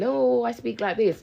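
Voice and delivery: mock high-end voice. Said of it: "be all, like, high-end and high-tech".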